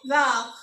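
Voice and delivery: वैक as French vert, with a throaty final r; French pronunciation of वैक. Shown as a demonstration. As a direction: end वैक on a rasped French r. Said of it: "तो इसको बोलते हैं".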